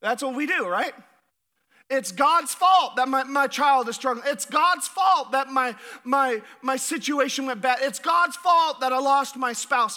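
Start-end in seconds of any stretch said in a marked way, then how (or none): 1.9-10.0 louder, blaming voice; mock complaint. Pastor voicing people who blame God, louder complaint.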